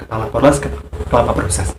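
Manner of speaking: fast, tangled "kepala poros ke kepala proses"; tripping over the tongue twister; tongue slip. Real, not acted. Teacher admits stumbling while reciting quickly. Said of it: "agak belibet mengatakannya".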